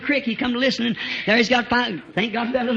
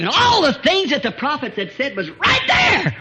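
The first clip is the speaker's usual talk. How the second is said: preaching shout; 5 semitones higher than usual. Real, not acted. Preaching climax.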